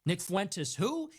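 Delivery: a hint of a sneering Shapiro; mock dismissive who. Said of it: "pretended like I don't exist".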